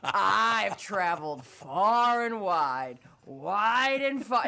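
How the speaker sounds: very slow, grand promo delivery; mock-dramatic slow wrestler promo; wrestler monologue. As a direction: drag it out like an epic wrestling speech. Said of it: "'Cause they're like".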